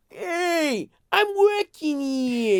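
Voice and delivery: hammed-up shouted protest, drawn out; confronting them. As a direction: holler it as a mock confrontation, stretching the words. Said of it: "confronting them".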